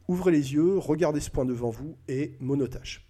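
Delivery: hypnotist command. Shown as a demonstration. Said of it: "C'est vraiment la monotâche".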